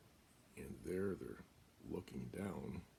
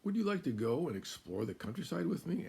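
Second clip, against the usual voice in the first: high, loud, coaxing fox voice; sly little fox; 11 semitones higher, 8 dB louder than usual. Acted. Fox luring Cow to explore the countryside, high and coaxing. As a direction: tempt her like a playful little fox. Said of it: "asked the fox".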